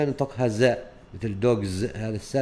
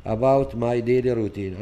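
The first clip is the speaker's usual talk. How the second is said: slow reading; 4 dB louder, much slower than usual. Shown as a demonstration. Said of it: "نصغر".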